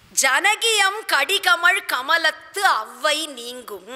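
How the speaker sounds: slow, drawn-out line of poetry; measured classical Tamil recital; verse recitation. Acted. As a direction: recite the verse slowly and deliberately. Quotes the verse line again.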